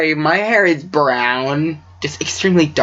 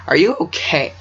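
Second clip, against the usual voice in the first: voice crack. Real, not acted. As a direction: voice cracking on a question. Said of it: "Voice crack".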